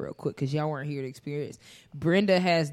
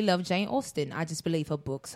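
light, put-on British accent; mild mock British voice. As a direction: speak like a lovely English romantic. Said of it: "I'm going to just speak in the British accent".

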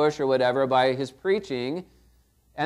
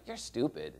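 softer, dropped-away insult; muttered insult; 5 semitones lower, 12 dB quieter than usual. Shown as a demonstration. Preacher demoing an insult, softly muttered. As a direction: say it under your breath. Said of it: "Maybe I say something like".

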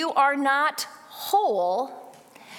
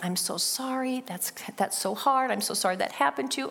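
soft, hushed words of comfort; 4 dB quieter than usual. Retold or imitated. Mother holding upset daughter on her lap, soft comfort. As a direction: soothe her gently. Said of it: "I was saying".

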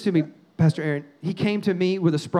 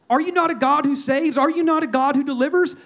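higher-pitched, insistent challenge to God; gutsy challenge; 4 semitones higher than usual. Retold or imitated. Preacher acting out a gutsy prayer, boldly challenging. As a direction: press God with bold rhetorical questions. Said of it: "That's pretty gutsy".

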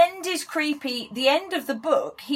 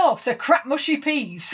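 dad's verdict; slower than usual. Retold or imitated. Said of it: "he went".

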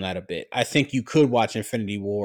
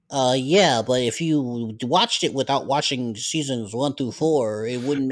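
slow, nasal-free whiny know-it-all nerd. Retold or imitated. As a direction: play a pedantic nerd objecting. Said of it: "why does your nerd voice sound so white".

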